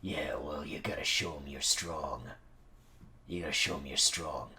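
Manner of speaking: low, hushed, insistent murmur; soft, secretive pep talk; conspiratorial coaching. Acted. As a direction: urge the little dog under your breath. Secretly coaching the small dog.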